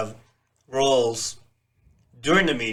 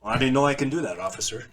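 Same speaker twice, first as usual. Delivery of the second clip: comic mock white American voice; lightly put-on proper guy talking to police; hint of a straight-laced American; 3 dB quieter than usual. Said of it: "Dave Chappelle white guy voice".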